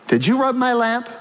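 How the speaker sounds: a hammed-up offended genie; genie from Aladdin. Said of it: "that's Aladdin".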